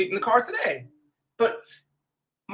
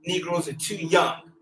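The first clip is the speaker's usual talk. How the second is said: elders quoted. Retold or imitated. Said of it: "they told me".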